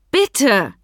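urgent, high plea falling away; imploring. A narrator's reading. Sam appeals to Frau Kaltenbach, imploring. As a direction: beg with one urgent word. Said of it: "rief Sam inständig".

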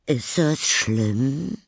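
slow, high cry of dismay; Frau Wilhelm. Acted. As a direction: stretch the words out in loud alarm. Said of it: "rief Frau Wilhelm". (gedehntes, erschrockenes Rufen)

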